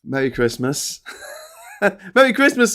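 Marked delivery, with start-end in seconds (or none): 2.1-2.7 high, laughing mock voice; giggly put-on high voice; mock squeaky Wayne. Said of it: "says Wayne".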